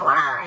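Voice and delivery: brief roar dropped into the sentence; playful wordless stand-in for a yell; mock yell noise. Mom admitting she yelled at her son, mock roar. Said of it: "why am I yelling".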